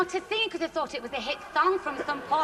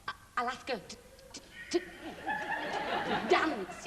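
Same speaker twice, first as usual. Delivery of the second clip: lightly acted stutter; stuttering man; 5 dB quieter than usual. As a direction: catch on each to. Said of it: "he had this terrible stutter".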